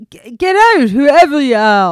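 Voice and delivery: put-on loud, high rural Irish growl of a kid's threat; a child shouting through the letterbox in a country accent. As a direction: bark it out in a thick country accent. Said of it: "you said that in a country accent".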